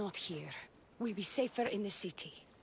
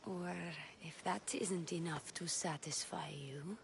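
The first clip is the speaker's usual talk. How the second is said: seductive whisper; 3 semitones lower, 4 dB quieter than usual. Acted. Seductive offer.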